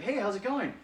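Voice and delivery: high, loud friendly hello; cheerful greeting. Retold or imitated. The speaker, as a young man, greeting his crush in a high, loud voice. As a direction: greet her brightly. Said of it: "and I was like".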